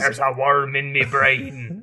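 put-on slow, botched Jamaican accent; attempted Jamaican accent. Showing off for an SNL packet, dubious Jamaican accent. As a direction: have a bad go at a Jamaican accent. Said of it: "That's my best Jamaican accent".

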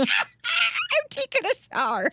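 hammed-up Irish lilt; Irish accent. Shown as a demonstration. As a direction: parrot the line in a put-on brogue. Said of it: "have to do an Irish accent".

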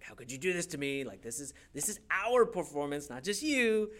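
quick mock reproach, rising at the end; retold sibling telling-off; embarrassed sister's scolding. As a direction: imitate an indignant older sister. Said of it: "is just so embarrassed".

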